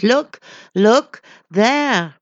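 high, loud urgent call; crowd calling out. A narrator's reading. The crowd calls to the lost wanderer, loud and urgent. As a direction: point and cry out to the wanderer. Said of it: "A thousand voices called to me".

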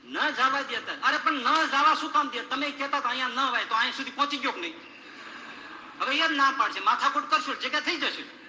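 loud, high, indignant argument; heated protest. Acted. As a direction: argue hard with the gatekeepers. Man argues at heaven's gate.

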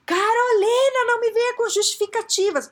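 mock exasperated bellow; imitated fed-up boss. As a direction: imitate a boss shouting down excuses. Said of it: "Então esse meu chefe".

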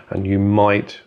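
might leaned on a little harder; a light stress on might to hedge the claim. Shown as a demonstration. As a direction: give the word might a gentle push. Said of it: "I stress the word might".

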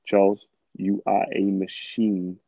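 slow, deliberate, certain self-affirmation; measured, confident mantra to himself; slow self pep talk. Shown as a demonstration. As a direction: tell yourself calmly that you are unstoppable. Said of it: "But listen to how I said that".

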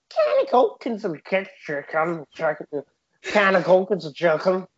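put-on warming up a Scouse accent. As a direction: practice Scouse phrase, Liverpool accent. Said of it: "do a Scouse accent".

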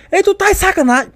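very high-pitched mock outrage; acted instructor's indignant challenge; imitated intimidating yell. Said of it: "Uma pressão".

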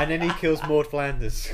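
bright, eager narration; enthusiastic. Acted. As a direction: say it with big enthusiasm. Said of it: "you said it so enthusiastic".

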